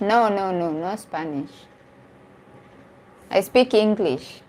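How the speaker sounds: ordinary talk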